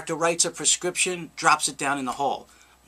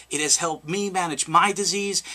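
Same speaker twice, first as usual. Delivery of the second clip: normal talking voice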